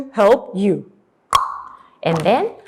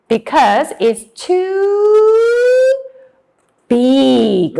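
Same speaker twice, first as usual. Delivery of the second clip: drawn out; 8 semitones higher, 4 dB louder, much slower than usual. Shown as a demonstration. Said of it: "teacher drawing out word for kids".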